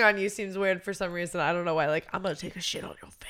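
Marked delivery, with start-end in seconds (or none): 2.1-3.3 prisoner impression. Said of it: "my prisoner impression".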